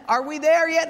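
put-on high nagging child voice; whiny kid. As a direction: pester like a bored kid. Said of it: "kids nagging".

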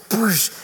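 short mouthed burst of water; imitated water splash. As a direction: imitate water hitting someone.

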